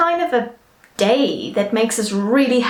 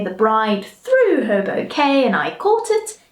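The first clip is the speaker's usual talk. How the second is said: a squealed, much higher "Yay!"; excited wedding guest; 6 semitones higher than usual. Pretend. Pretend wedding guest catching the bouquet, squealing with joy. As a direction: play a thrilled guest who caught the bouquet. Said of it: "You could say".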